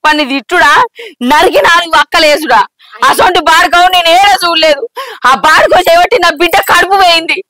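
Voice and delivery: worked-up, outraged complaint; indignant cursing. Acted. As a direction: rail against the culprit. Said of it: "గంతగానం ఎందుకు తిడుతున్నావు".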